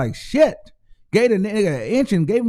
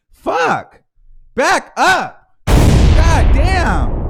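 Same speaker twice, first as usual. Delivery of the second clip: loud, high shout of back up; angry shout; 6 semitones higher, 9 dB louder, much slower than usual. Real, not acted. Yelling at Kenneth crowding Nicki, a loud angry shout. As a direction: yell at him to back off.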